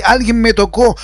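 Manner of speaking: Jesus calling out firmly to the crowd; said out loud. Retold or imitated. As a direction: raise the voice a little on the question. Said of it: "y lo dijo fuerte".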